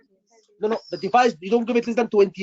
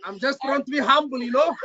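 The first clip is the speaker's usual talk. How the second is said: laughing; 3 semitones higher than usual. Real, not acted.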